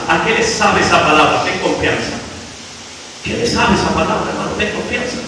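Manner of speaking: low, soft, intimate; hushed appeal. Real, not acted. Preacher asking the congregation, soft and low. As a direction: lean in and speak softly.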